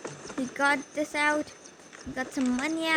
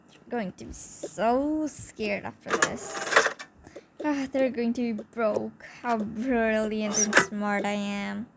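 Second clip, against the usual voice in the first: smug gloating; slower than usual. Retold or imitated. Robber gloating, drawn out.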